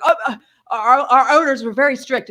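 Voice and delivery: imitated stammering. Coffee man excuses the mask rule, imitated stammering. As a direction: stumble over the first words, acting flustered.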